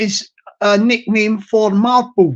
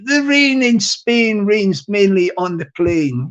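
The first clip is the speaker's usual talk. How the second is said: slow, presenter-like YouTube delivery. Shown as a demonstration. Demonstrating his YouTube voice to viewers, slow presenter voice. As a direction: say it in your on-camera YouTube voice. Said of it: "that's my YouTube voice".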